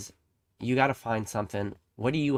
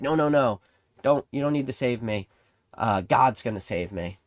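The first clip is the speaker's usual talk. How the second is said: stubborn refusal; 4 dB louder than usual. Acted. Stranded man turning down a cruise liner, stubborn and raised. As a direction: wave off the rescuers, sure of faith.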